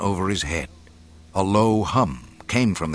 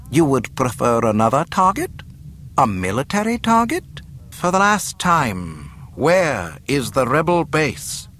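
higher, pressing demand; threatening interrogation; 7 semitones higher, 3 dB louder than usual. Acted. Governor demanding the rebel base's location, pressing threat. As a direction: push the questions toward an ultimatum.

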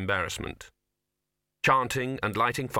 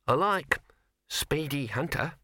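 lightly higher little mouse; a hint of a small pleased mouse; 5 semitones higher, slower than usual. Mouse speaking.

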